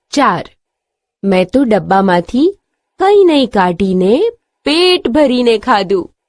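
normal talking voice

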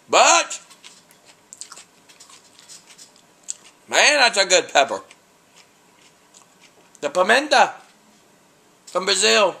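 excited praise. Real, not acted. Reviewer raving to viewers about the pepper, excitedly high. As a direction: voice jumping high and loud over the taste.

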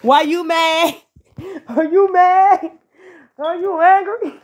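sing-song taunt. Acted. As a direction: tease them like a pouting child. Taunting the haters.

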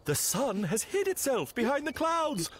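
wise calm friend. Acted.

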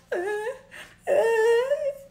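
forced cry attempt. Trying to make herself cry, forced whimper. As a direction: squeeze out a badly faked cry. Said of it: "para que saliera algo".

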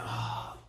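soft, breathy "ah" of giving up; exasperated sigh. Retold or imitated. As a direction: sigh it out, unimpressed by the text. Groaning reaction to hard reading.

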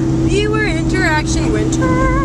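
"winner" with a T in it, slowly; slow misreading with a T inside "winner"; winner said as winter. Real, not acted. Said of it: "No, not winter wife, winner".

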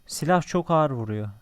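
loud exclamation. Real, not acted. Gamer shouting about the gun's damage, loud and amazed. Gun hits hard, exclaims loudly.

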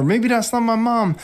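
put-on a little girl spooked by a scream; frightened child thought. Grandma as a girl, frightened by the screaming plant.

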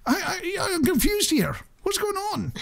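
high, incredulous confused question; baffled disbelief. Retold or imitated. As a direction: act baffled that anyone bought it. Own baffled reaction retold, +9 to +12.

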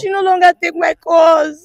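upset and wailing; crying. Real, not acted. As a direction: cry out in distress. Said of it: "Don't cry, don't cry".

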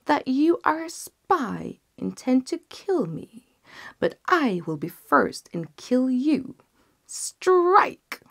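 high, loud royal command; furious king. Acted. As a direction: order the kill with rising rage. King orders execution.

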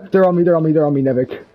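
high frantic yell; panicked shouting. Real, not acted. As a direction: scream it as the killer chases. Panicked chase yelling.

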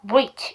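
reach starting with pursed lips, like a w before the r; rounded-lip R. Shown as a demonstration. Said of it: "입 동그랗게 모아주셔야 돼요".

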